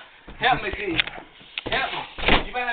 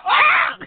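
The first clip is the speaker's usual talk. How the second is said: sudden high startled yelp; real jump of fright; startled shriek; 8 dB louder than usual. Real, not acted. Bird flies at her.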